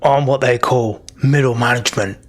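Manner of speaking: lightly voiced bugbear foreman; bugbear middle manager. Bugbear defends his boys' downtime to the party, lightly in character. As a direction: explain yourself like a matter-of-fact boss.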